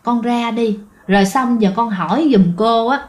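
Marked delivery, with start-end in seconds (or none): 0.0-0.8 softened coaxing. Retold or imitated. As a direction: coax the frightened spirit kindly. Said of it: "bà dịu cái giọng".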